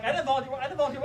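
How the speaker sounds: quick protest in mild panic; retold panicky objection; panicked protest. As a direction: blurt it out twice, mock panicked. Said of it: "I'm in panic mode".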